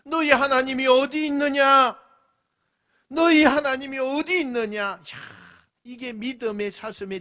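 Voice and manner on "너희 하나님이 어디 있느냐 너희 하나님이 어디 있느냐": higher, louder sneering taunt; mocking sneer. Mocker sneering at the believer, higher and louder. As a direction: taunt them with scorn. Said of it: "비아냥거리는 거예요".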